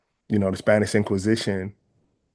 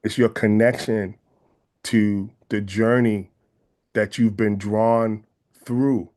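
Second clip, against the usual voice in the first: slow and weighty, each phrase set apart; slow, deliberate; slower than usual. Real, not acted. Teaching a congregation, stating the point slowly. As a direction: lay it down slowly so it sinks in. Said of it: "let me say that again".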